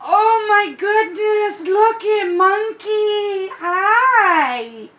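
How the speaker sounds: greeting the doll through happy tears; happy crying. Real, not acted.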